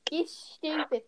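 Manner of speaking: amateur British insult; mock British accent. Chav girl taunting, mock British accent. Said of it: "I'm giving them an accent".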